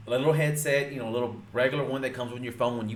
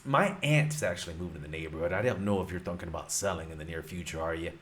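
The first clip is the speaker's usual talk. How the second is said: casual caller pitch; 6 semitones lower, faster than usual. Shown as a demonstration. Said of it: "Throw in some laughs in there".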